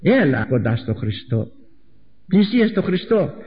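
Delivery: sweet coaxing. Acted. One inner twin calling the other to Christ, sweet coaxing. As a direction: coax sweetly, stretching the words. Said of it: "Ο ένας να λέει γλυκά, γλυκά".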